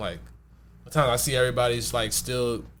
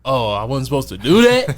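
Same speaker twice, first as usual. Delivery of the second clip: laughing; 7 dB louder than usual. Retold or imitated. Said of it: "And I'm like".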